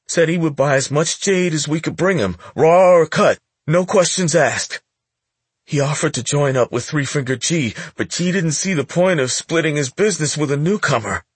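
put-on high, nervous young boy; a scared teen stammering to a gangster; frightened boy voice. Boy continues explaining.

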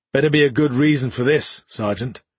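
a curt officer clipping his words; hard clipped captain. Acted. Captain to sergeant, strong and clipped. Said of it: "strong, clipped, and precise".

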